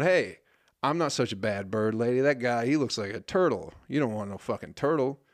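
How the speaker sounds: lightly voiced candidate, perky at the start; hint of a politician pitching herself; mock candidate ad. Candidate defends herself in her own ad, light mock pitch. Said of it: "the bird lady on there going".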